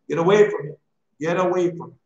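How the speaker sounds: loud, urgent command; a preacher's loud warning to the flock; forceful warning. Real, not acted. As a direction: warn them off, sharply. Preacher warns congregation.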